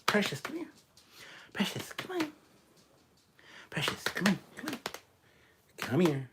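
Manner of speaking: high sing-song dog call. Real, not acted. Calling the dog Precious over to the camera, high coaxing call.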